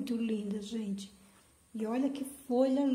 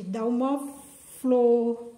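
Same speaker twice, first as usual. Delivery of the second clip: louder, delighted gushing; excited gushing; 2 semitones higher, 5 dB louder than usual. Real, not acted. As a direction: gush over the flower, building up. Encantada mostrando a flor. (empolgada e encantada, mais alto)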